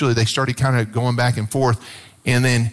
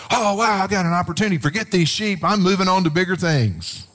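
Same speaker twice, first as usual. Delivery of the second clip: higher, giddy pretend David; mock excited; 5 semitones higher than usual. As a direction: play a giddy David off to bigger things. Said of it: "David didn't say".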